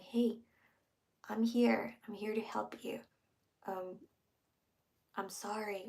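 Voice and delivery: gentle and hushed, dropping to a whisper; soft calming voice. Shown as a demonstration. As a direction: soothe a partner, close to their face. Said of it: "but in a soft manner".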